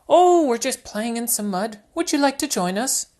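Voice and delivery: put-on high, cheerful little girl piglet; Peppa Pig voice. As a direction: invite Daddy into the mud, high and bright.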